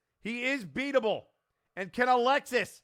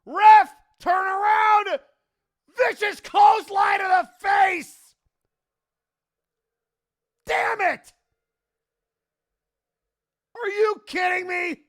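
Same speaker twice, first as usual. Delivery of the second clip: angry fan shouting; 4 semitones higher, 4 dB louder than usual. Real, not acted. Interference costs the title.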